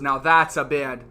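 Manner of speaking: mild put-on British accent; imitating an accent. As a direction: say it like the guy on the hike in a British accent. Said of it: "but it was an accent".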